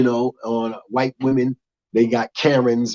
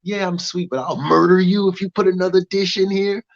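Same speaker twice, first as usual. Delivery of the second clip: sweet but menacing; 5 semitones higher than usual. Retold or imitated. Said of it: "mixed look of".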